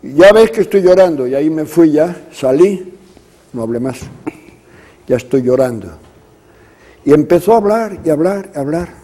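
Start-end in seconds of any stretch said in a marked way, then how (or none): 0.0-1.3 a touch of tearful pleading, a little louder; quoting her through mild tears; crying words. Retold or imitated. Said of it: "primero a llorar". 5.1-5.9 softer, subdued tearful admission; letting the tears slip out quietly; quiet crying words. Retold or imitated. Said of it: "primero a llorar".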